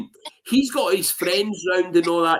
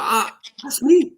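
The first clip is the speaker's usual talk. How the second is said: drawn-out, higher proud 'that's me'; proud exclaim; 9 semitones higher, slower than usual. Retold or imitated. Telling the barmaid it's his band, drawn out and high. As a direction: show off to the barmaid, slowly and high. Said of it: "And I'm going like".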